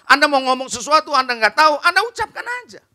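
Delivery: ordinary delivery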